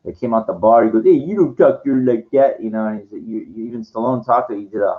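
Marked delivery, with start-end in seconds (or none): 1.0-2.6 lightly voiced movie tough, a bit raised; a hint of a belligerent barfly; bar loudmouth. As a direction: imitate a fool picking a fight outside a bar. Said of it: "the guy, the, the fucking idiot".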